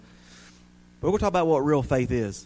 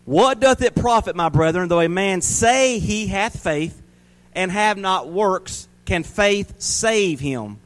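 slow, emphatic Bible verse; drawn-out pulpit reading; scripture reading; 2 semitones higher, slower than usual. Real, not acted. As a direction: read it out weightily, word by word. Reads the verse aloud.

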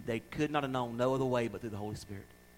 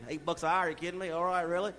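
weary cashier; 3 dB quieter than usual. Retold or imitated. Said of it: "Poor little cashier just sitting there going".

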